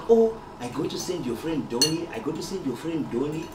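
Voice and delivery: a light Zimbabwean accent, imitating his mom; lightly voiced Zimbabwean mother offering to send hot sauce. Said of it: "in the Zimbabwean accent".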